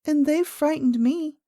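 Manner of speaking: high little-princess voice with a smile; lightly amused little girl; smiling. A narrator's reading. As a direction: smile as you say it, like a child. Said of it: "smiling too".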